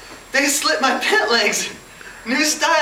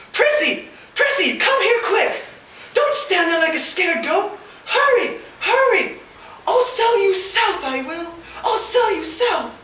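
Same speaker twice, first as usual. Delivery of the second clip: frantic yelling; 8 semitones higher than usual. Acted. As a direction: bark orders in a panic. Scarlett yells at maid Prissy.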